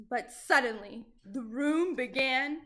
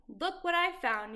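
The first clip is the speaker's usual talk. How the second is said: proud Jack; 5 semitones higher than usual. Acted. Jack proudly shows egg.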